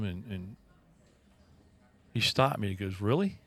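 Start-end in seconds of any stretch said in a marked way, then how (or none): 3.0-3.4 higher, rising disbelief; a retold doubtful query; incredulous question. Stepson questioning his stepdad's view of the sermon, incredulous.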